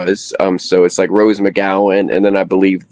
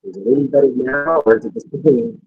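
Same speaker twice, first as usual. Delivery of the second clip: muffled mic; 5 semitones higher than usual. Real, not acted. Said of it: "Mm, it's not great, brother".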